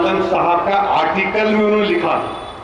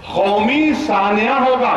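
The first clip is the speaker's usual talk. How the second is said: slow translation; 4 semitones higher, slower than usual. Shown as a demonstration. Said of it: "तर्जुमा क्या है".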